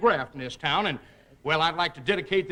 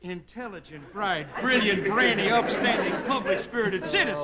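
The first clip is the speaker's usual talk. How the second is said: sudden flattery. Acted. Mayor switches abruptly to flattery.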